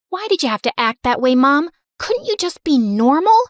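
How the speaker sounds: rising, exasperated plea to mom; upset kid. Acted. Daughter scolding her showy mother, frustrated.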